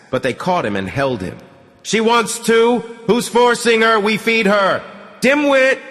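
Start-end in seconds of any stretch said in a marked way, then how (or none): 1.8-4.8 men shouting back. Acted. Men defending the whipping. 5.2-5.8 sharp high yell of an insult; girl shouting. A narrator's reading. The girl yelling at Artyom, a loud high shout. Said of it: "That's the girl shouting".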